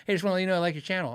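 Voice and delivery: quick, offhand imitation of a fan; casual. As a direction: toss it off casually, rattled out quickly. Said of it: "very casual".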